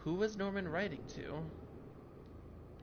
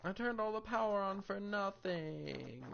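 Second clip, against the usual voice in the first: slow, higher sulky complaint; deflated whine; 5 semitones higher, slower than usual. Real, not acted. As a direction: let the disappointment drag out. Complains effort wasted.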